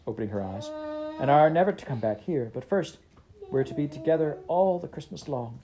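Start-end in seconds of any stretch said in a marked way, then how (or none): 1.2-5.6 put-on high, eager little girl; a small sister bursting with news, voiced high. Little sister fetching her brother home, high and eager. Child Fan speaking.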